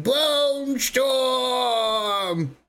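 high, drawn-out shouted Bone Storm; imitating the pet. Friend mimicking the annoying pet's call, high shout. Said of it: "what's his name?".

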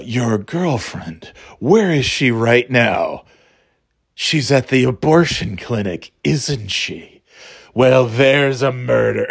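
slow sinister villain. Acted. Voicing the sinister film character.

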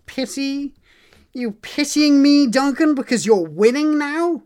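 high, loud accusing question; mock indignation. Real, not acted. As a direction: challenge a rival, playfully affronted. Mock-offended challenge to rival.

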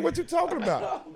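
incredulous retold squeak; retold bafflement. Retells his baffled reply.

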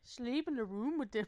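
teasing attempt at an Irish lilt; playful, rough Irish imitation; imitated Irish accent. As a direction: mimic her in a loose Irish accent. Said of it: "You sound like an Irish dude".

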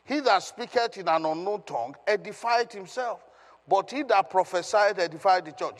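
emphatic public reading of a Bible verse; preacher declaiming scripture with firm stresses; scripture reading aloud. Acted. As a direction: proclaim the verse to the congregation. Reads scripture aloud to congregation.

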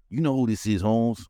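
lightly voiced LA cholo caller; a hint of an LA cholo accent, menacing; mock LA cholo menace on the phone. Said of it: "he sounds like a fucking, uh, a cholo from, from L A".

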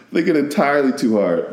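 talking on the tail of a laugh. Real, not acted. Speaker admitting they thought too hard, laughing. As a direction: laugh through the admission. Cracks up at own spins.

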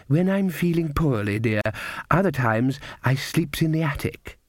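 put-on a gentle old woman explaining patiently; kindly old grandmother. Grandmother answers Nanny.

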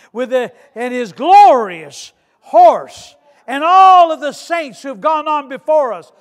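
loud, emphatic sermon delivery; impassioned preaching. Acted. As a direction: preach it with force, stretching key words. Preaching at full force.

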